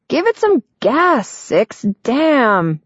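put-on high, exasperated young man; impatient complaint. A narrator's reading. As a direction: groan it at her impatiently. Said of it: "Nine complains".

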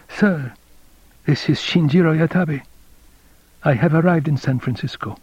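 thin voice, far off and dry; faint dry rustling voice. A narrator's reading. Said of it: "a faint, dry, rustling voice".

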